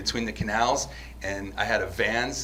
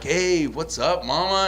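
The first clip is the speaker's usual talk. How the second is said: catcaller; 6 semitones higher, slower than usual. Retold or imitated. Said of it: "they were like".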